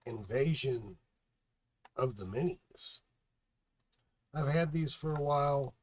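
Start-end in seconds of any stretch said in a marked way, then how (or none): 0.0-3.0 ringmaster. Acted. Circus style show opening announcement.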